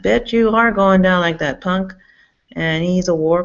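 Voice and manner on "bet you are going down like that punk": taunting retort. Retold or imitated.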